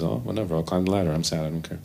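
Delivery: soft, falling bored shrug; mopey John. Retold or imitated. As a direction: trail off like a sad millionaire who doesn't care. John's mopey resignation.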